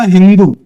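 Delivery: हिंदू with h where सिंधु has s, said firmly; Persian-style pronunciation. Shown as a demonstration. Teacher showing the class how Persians said सिंधु, as हिंदू with an h. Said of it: "सा को क्या pronounce करते थे".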